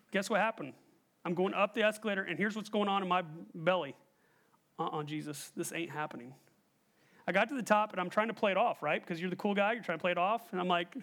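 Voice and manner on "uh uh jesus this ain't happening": low, soft muttered refusal; quiet dread. Acted. Scared rider praying on the way up, low muttering. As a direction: mutter it low under your breath.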